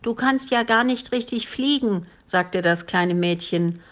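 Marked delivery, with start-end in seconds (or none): 0.0-2.1 put-on higher, taunting child; a hint of childish defiance; lightly voiced little girl. A narrator's reading. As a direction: belittle the dragon like a small girl.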